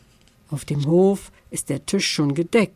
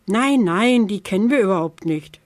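fibbing; 4 semitones higher, 3 dB louder than usual. Acted. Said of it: "schwindelt Stulle".

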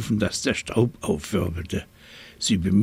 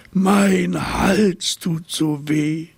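high, slow, loud wail; wailing giraffe; 8 semitones higher, 4 dB louder, much slower than usual. A narrator's reading. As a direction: cry it out as a suffering giraffe. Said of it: "jammerte die Giraffe".

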